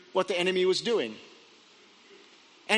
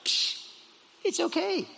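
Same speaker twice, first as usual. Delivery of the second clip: unbothered; 7 semitones higher, 3 dB quieter than usual. Acted. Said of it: "Elijah's like".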